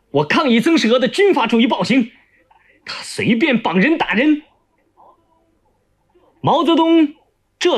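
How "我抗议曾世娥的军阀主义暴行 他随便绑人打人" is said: fast, high-pitched complaint; indignant protest. Acted. Tied-up prisoner protesting to the leader, indignant.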